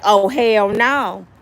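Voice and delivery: drawn-out disbelieving refusal; slow oh hell no. Retold or imitated. Curtis hears Vivica's voice and refuses, slow. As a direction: stretch it, refusing flat out. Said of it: "Curtis like".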